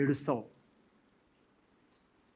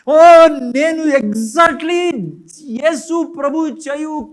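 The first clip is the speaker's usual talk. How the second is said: mock regretful lament; 3 dB louder than usual. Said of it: "ఎందుకు ఏడుస్తానంటే".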